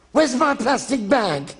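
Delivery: high, slow, querulous whine; plaintive old man. Retold or imitated. Charlie Hawtrey asking the set for his stolen bag, querulous. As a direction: plead for the lost bag like a fussy old man. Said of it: "Charlie would say".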